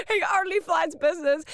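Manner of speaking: hammed-up gossip; mock diva emphasis. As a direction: relish the diva detail. Gossiping about a singer.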